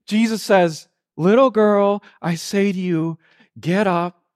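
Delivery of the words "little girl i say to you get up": easy, natural wake-up call; gentle parent waking child. Shown as a demonstration. Jesus wakes the girl like a parent, gently. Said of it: "like any parent would speak to a sleeping child".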